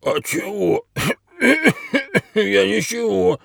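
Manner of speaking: high-pitched, flustered excuse with coughing. A narrator's reading. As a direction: cough and laugh nervously through the denial. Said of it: "растерянно пробормотал Рэп, кашля".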